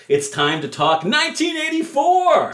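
high, loud hype announcement; excited shout. Pretend. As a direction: shout it like a rock emcee. Big shouted announcement, then a cry.

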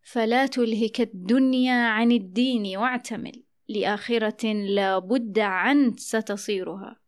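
measured verse, ayn opening عن; an'ana verse. Shown as a demonstration. Host recites Ya'qub's verse, an'ana dialect. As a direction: recite with عن pronounced with ayn for hamza. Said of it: "وقد أنشد يعقوب قائلًا".

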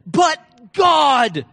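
high, loud preacher's shout; emphatic declaration. Acted. David answering news of a king out to kill him, shouted declaration. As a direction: shout both words as a firm answer. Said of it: "this is how he talked".

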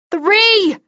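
high, loud count-off scream. Acted. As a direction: yell the last count as you charge. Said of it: "I screamed".

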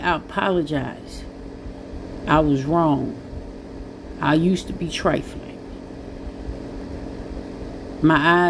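sincere, low-voiced confession; honest apology. Real, not acted. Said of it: "that's me just being honest".

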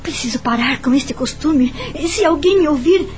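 startled at yourself, a touch agitated; mildly alarmed talking to oneself; startled self-talk. Acted. Startled at own guess, talks to self.

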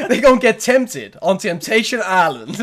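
weak attempt at a Boston accent; slow half-hearted Boston accent; bad Boston accent. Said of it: "I can't do a Boston accent".

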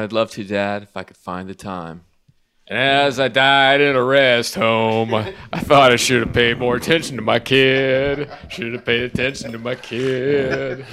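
a slow, mock solemn parody line. Spoofing a song's ending for the co-hosts, slowly and solemnly. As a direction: drag it out like a sad ballad.

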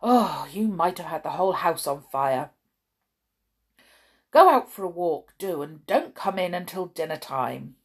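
scolding. Acted. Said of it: "she snorted".

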